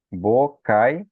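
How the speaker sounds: "Bocaiúva" as bo... cai... Ú... va; syllables, stressed U. Shown as a demonstration. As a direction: isolate the U in "Bocaiúva" with pauses. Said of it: "O U também, ele é tônico". ("Bocaiúva" silabado, com o u isolado)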